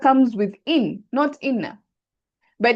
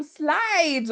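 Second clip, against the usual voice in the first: "slides" stretched long, gliding through the vowel; drawn-out stress; 5 semitones higher than usual. Shown as a demonstration. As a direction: draw out "slides" as if it glides over. Illustrates the lam sliding across.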